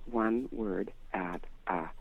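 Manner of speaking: slow, separated words; deliberate word-by-word delivery; one word at a time. Shown as a demonstration. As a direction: space out every word. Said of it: "telling people to slow down".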